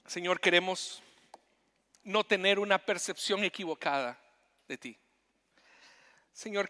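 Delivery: earnest congregational prayer, rising in the middle. Real, not acted. Preacher leading the congregation in closing prayer. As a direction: pray sincerely for the church.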